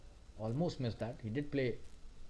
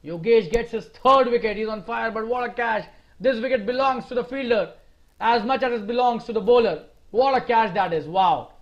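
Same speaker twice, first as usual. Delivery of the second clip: animated, emphatic wicket call; fired-up cricket commentator; excited commentary; 3 semitones higher, 4 dB louder than usual. Real, not acted. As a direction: celebrate the catch with punchy enthusiasm. Celebrating wicket and stunning catch.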